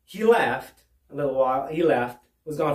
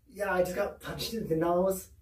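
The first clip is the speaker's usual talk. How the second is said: faking hurt; 2 semitones higher, 8 dB quieter than usual. Retold or imitated. Repeats fake injury softly.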